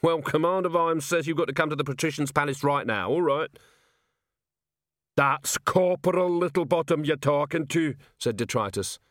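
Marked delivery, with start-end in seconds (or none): 0.0-3.6 cocky constable voice. Acted. Constable delivers message. 5.2-7.9 stern rebuke. Acted. Troll rebukes constable.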